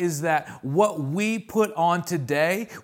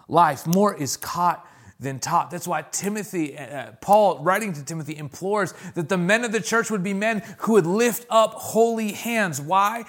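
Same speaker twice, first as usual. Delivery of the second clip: preaching at full force. Acted. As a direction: preach it out, calling on the parents.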